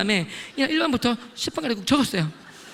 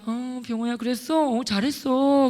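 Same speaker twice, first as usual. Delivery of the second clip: gentle reassurance; much slower than usual. Retold or imitated. Mentor comforting a student, gentle reassurance. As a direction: soothe him slowly so he isn't hurt. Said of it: "상처받을까 봐".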